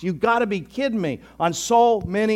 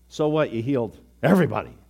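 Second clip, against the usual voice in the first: quick, lower, dismissive snark; with attitude; 3 semitones lower, faster than usual. Acted. Leaders sneering at Jesus's healing, with attitude. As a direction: brush it off with a little sass. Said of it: "with a little bit of an attitude".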